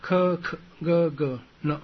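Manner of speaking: 科科哥哥呢 as separate, evenly spaced syllables; consonant drill. Shown as a demonstration. Teacher demonstrating hard-to-pronounce consonants, syllable drill. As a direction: sound out 科科哥哥呢 one syllable at a time. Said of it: "比较不好发音".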